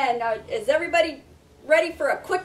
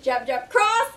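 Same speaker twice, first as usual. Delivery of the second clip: boxing coach calling combos. Shown as a demonstration. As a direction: call each punch sharply. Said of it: "So we're gonna go jab, jab, cross, hook".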